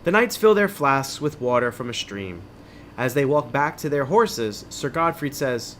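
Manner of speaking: measured, dramatic adventure-book reading; story narration. A narrator's reading. Host reading an adventure book to listeners, story narration. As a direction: read it like a suspenseful tale.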